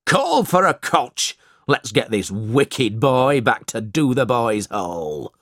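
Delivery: a hint of a gruff schoolmaster barking orders; lightly voiced harsh master calling out; understated order shouted at a captured boy; mild shout. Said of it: "He looked at Smike and shouted".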